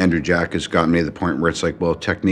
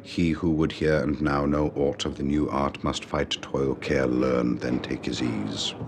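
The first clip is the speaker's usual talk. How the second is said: RP recitation; 3 semitones lower, 6 dB quieter than usual. Shown as a demonstration. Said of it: "It's, uh, R P, received pronunciation".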